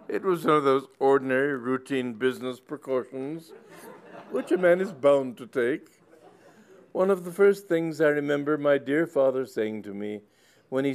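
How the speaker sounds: put-on high, loud old gentleman overcome with emotion; an elderly squire gushing through tears; tearful old squire. Sir Leopold to the curate, gushing high and loud.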